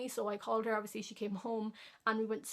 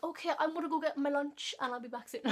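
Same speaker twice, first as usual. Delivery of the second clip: higher, easygoing doctor voice; chill doctor voice; 5 semitones higher than usual. Retold or imitated. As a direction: toss it off like a relaxed doctor. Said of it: "he was like".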